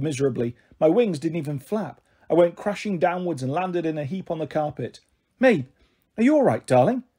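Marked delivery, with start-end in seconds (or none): 5.4-7.0 raised, higher-pitched motherly call. A narrator's reading. Mum calls from the living room, calling out. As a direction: call through to another room, concerned. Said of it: "Mum called from the living room".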